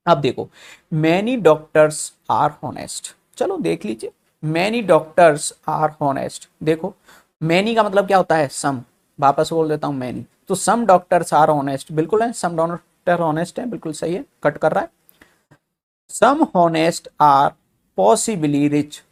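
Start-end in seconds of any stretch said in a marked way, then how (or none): 1.0-3.1 slow dictation. Shown as a demonstration. Teacher reading the statement slowly. 4.4-6.5 slow dictation. Shown as a demonstration. Teacher rereads the statement. 10.6-11.9 slow dictation. Shown as a demonstration. Rereads with some for many. 16.1-19.0 slow dictation. Shown as a demonstration. Teacher reading the statement slowly.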